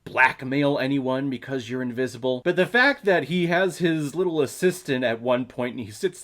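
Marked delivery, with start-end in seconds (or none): none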